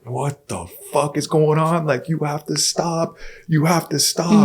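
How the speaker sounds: high-pitched, incredulous taxi driver; imitating alarmed driver. Taxi driver to fighting passengers, high alarmed protest.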